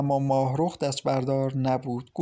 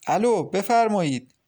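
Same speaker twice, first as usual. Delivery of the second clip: higher, eager phone greeting; excited; 5 semitones higher, 4 dB louder than usual. A narrator's reading. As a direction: answer the phone with quick excitement. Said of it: "ماهرخ با هیجان گفت". (با هیجان)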